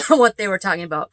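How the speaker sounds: throat irritated. Real, not acted. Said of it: "Coughing up bugs".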